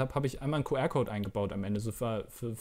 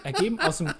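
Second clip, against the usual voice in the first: lachend; 5 semitones higher, 5 dB louder than usual. Real, not acted. Lacht ungläubig über den Fund.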